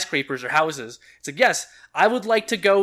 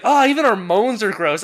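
mocking gross guy voice; 6 semitones higher, 6 dB louder than usual.

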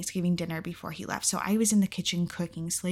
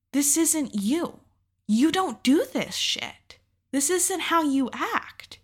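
high, slow, tearful pleading; reliving the sob, pleading high and slow; crying plea; 8 semitones higher, much slower than usual. Retold or imitated. Crying to cheating boyfriend in parking lot, high tearful plea. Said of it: "And I just started crying".

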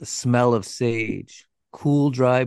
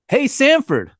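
much higher and louder, a gleeful call across the yard; 14 semitones higher, 7 dB louder than usual. Retold or imitated. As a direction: shout his nephew's name with menace. Gordon calls out to nephew.

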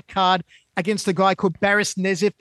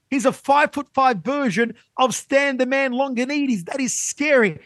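higher, eager, building hype; retold excited pitch, voice up high; excited praise; 4 semitones higher than usual. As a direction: sell Stan on his new fighter. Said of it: "And I said".

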